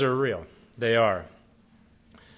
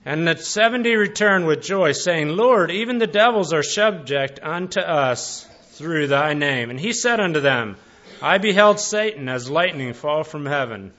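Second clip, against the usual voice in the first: a lightly raised formal Bible reading voice; scripture reading. Acted. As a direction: read the verses out to the congregation, measured. Reads Luke passage aloud.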